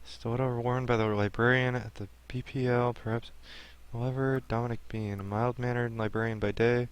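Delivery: soft murmured read of clue text; quiet reading. Acted. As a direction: read it under your breath. Reads game text quietly.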